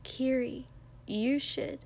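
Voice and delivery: soft, hushed urging; whispered nudge. A narrator's reading. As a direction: whisper it gently to a friend. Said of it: "Mina whispered".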